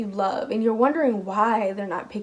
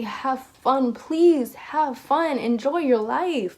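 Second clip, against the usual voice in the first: pleading higher voice of a lost loved one; 3 semitones higher, much slower than usual. Retold or imitated. Spirit of a lost loved one urging the listener, pleading and higher. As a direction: coax them gently to have fun. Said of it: "they're still trying to say".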